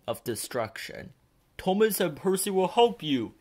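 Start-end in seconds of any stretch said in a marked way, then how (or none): 1.6-3.3 louder, higher call across the wreck. A narrator's reading. Sir Topham Hatt calls up to Cranky, loudly. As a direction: call out to reassure. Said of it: "he called to Cranky".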